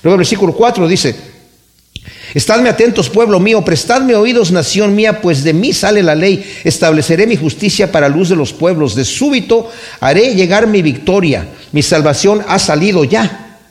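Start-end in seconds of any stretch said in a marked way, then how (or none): 2.3-13.6 scripture reading. Acted. Preacher proclaiming the verse to the congregation, solemn reading. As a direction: declaim God's call to his people. Reads God's words from Isaiah.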